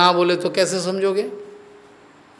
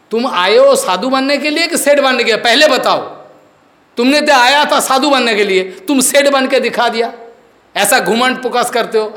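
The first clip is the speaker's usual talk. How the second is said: scolding challenge; 5 semitones higher than usual. Real, not acted. Preacher scolds disciples for worldliness.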